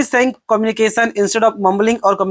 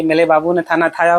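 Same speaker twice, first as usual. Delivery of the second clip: lovey-dovey dialogue; 3 semitones lower than usual. Acted. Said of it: "वो वाला dialogue निकलेगा".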